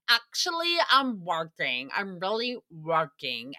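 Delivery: exaggerated defensive insistence. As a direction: imitate someone protesting too much. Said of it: "the tone is so defensive".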